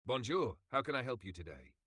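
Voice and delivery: put-on English with a French accent, a bit fast. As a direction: greet the caller with a French accent. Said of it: "can you do the French accent".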